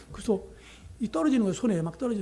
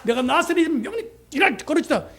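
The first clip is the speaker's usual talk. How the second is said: a somewhat louder solemn command; commanding healing; 5 semitones higher, 4 dB louder than usual. Retold or imitated. Missionary repeating his healing command, solemn and declaring. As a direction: declare it with prophetic authority.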